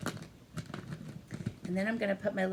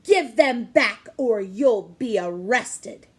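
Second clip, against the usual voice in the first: threatening squirrel; 10 dB louder, slower than usual. Acted.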